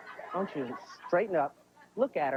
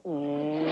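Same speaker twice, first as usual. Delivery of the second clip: savoring hum; 3 semitones lower than usual. Retold or imitated. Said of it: "licking off the spoon going".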